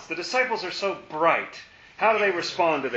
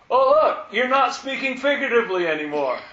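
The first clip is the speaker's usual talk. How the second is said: mock eager disciples; 5 semitones higher, 4 dB louder than usual. Mimicking the disciples' discovery.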